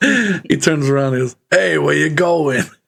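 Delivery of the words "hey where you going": put-on New York taxi-driver accent. Voicing the cabbie who turns around to the players, new york cabbie accent. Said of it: "Do your best New York accent".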